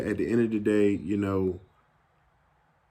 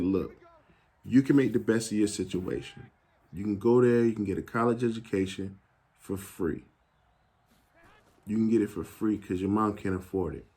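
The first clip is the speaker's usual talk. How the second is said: softer, sincere retelling of a mom's counsel; earnest motherly advice; 2 semitones lower, 5 dB quieter than usual. Retold or imitated. Mom urging son not to waste free college, softly earnest.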